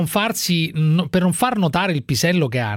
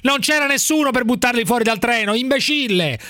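higher-pitched, exasperated scolding; angry; 6 semitones higher than usual. Real, not acted. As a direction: berate him, pitch up. Insulting a caller on air.

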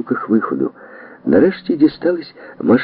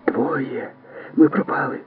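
much softer, frightened hush; whisper; 6 semitones higher, 5 dB quieter, slower than usual. Acted. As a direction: despair under your breath. Trillian still hiding, panicking.

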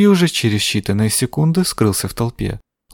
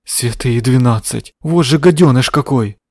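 gasping; 3 dB louder than usual. Acted. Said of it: "ахнула Амбразина Стролло".

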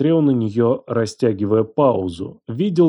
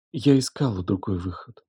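put-on softer girl's voice, barely breathed; whispered; 2 semitones lower, 6 dB quieter than usual. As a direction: say it under your breath. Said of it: "прошептала она".

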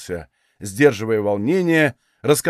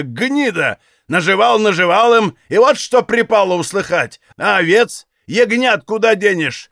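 higher, louder enraged shouting; bellowed; 6 semitones higher, 4 dB louder than usual. A narrator's reading. Father bellowing at his daughter, enraged. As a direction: roar at the daughter, stamping mad. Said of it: "оранул".

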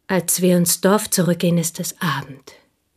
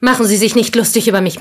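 quick, louder rebuke; sharp protest; 4 semitones higher, 5 dB louder, faster than usual. Acted. Woman rebuking Monsieur Dange for mocking her, quick and sharp. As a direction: snap back at his mockery. Protesting his ironic remark.

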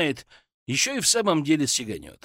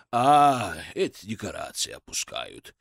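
unflustered; 6 semitones lower than usual. A narrator's reading. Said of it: "невозмутимо ответил билетёр".

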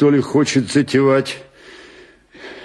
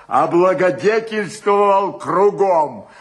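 raised, higher-pitched reproach; indignant shouting; 4 semitones higher than usual. Acted. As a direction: build up an indignant tirade at an ungrateful friend. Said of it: "что ты кричишь-то?". (возмущённо, на повышенных тонах)

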